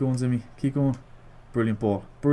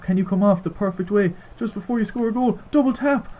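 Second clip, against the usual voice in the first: higher and higher as he urges; building hopeful urging, much higher; rising excitement; 6 semitones higher than usual. Real, not acted. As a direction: egg the player on, climbing. Urging player to score.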